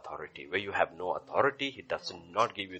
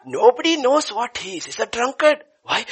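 higher, louder gossiping voice; mock gossip; 12 dB louder than usual. Gossiper in the sermon story spreading the rumour, mock accusing. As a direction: play the smug gossiper.

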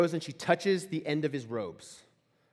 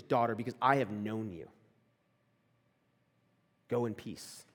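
lower, gentle fatherly voice; tender; 6 semitones lower, 4 dB quieter than usual. Acted. Jesus sending the healed woman off in peace, tender. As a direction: speak with quiet affection and reassurance. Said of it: "an attachment and a closeness and a love".

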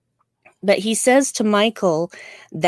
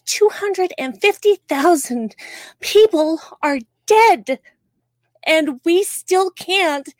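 emotional outburst; 5 semitones higher than usual. Real, not acted. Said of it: "I'm sorry to get emotional".

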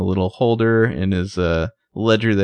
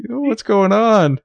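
high, drawn-out weepy imitation; hammed-up tearful whine, pitched way up; mock weepy; 13 semitones higher, slower than usual. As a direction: play a tearful, bewildered man for laughs. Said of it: "he's, like, weepy".

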